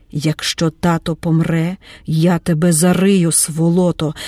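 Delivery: usual speaking voice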